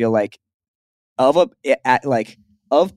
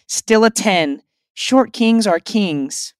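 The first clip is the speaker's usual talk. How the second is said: gushing fan voice; 8 semitones higher, slower than usual. Retold or imitated. Reading a fan comment aloud.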